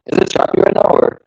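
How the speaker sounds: choppy call audio cutting out; broken up internet call voice; laggy video call. Real, not acted. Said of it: "you just sound laggy".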